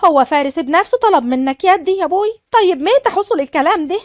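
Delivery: light up at hearing his name; happy surprise. Acted. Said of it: "ليلى بفرحة". (فرحة ومفاجأة بصوت أعلى)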